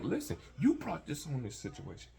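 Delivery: rising from firm to a shout at her; building yell. Retold or imitated. Man yelling back at crying girlfriend, building to a shout.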